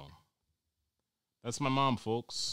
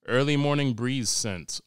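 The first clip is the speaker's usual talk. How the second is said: mock ad voice; 5 semitones higher, 10 dB louder, slower than usual. Reading out air freshener scents.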